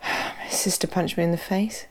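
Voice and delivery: dry as a bone, no emotion; deadpan. Retold or imitated. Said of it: "deadpan, dead, dry as a bone".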